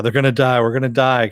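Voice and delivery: half-earnest doom warning; retold panic. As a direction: imitate a pilot freaking out. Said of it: "the pilot's just freaking out".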